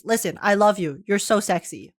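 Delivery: normal talking voice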